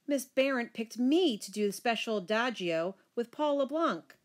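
put-on mild girlish squeal, pitch climbing; excited squeal. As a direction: gush it proudly to Mom. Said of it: "I squealed".

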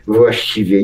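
usual speaking voice

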